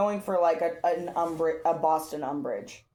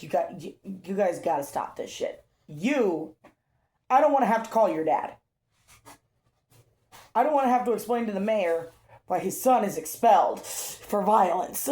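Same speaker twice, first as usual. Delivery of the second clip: annoyed principal. Retold or imitated. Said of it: "he's so annoyed".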